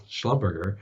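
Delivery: "Schlumberger" with a hard G, ending like "burger"; mispronounced Schlumberger. Retold or imitated. Job seeker gushing to a company contact, mispronouncing "Schlumberger" with a hard-G burger ending. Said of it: "'cause it's Schlumberger".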